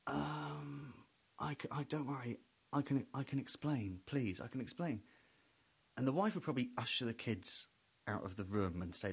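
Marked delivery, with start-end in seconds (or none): 0.1-5.0 flustered husband. Retold or imitated. Flustered husband pleading quietly.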